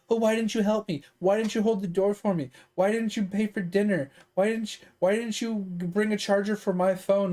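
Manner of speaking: mock a string of petty complaints; mock complaining. Imitating women in videos blaming the man, mock complaining. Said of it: "videos of women complaining about".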